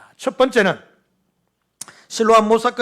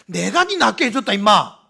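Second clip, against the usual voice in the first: blunt, louder Gyeongsang dialect line; 5 dB louder than usual. Pretend. Preacher joking how Jesus would say it in Gyeongsang dialect. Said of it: "이래 한마디 경상도 말로 했으면".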